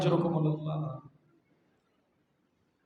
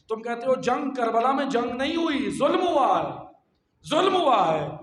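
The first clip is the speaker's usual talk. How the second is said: raised, emphatic sermon rebuttal; forceful preaching; 4 semitones higher, 4 dB louder than usual. Acted. Preacher correcting those who call it war, forceful. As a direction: drive the repeated charge home.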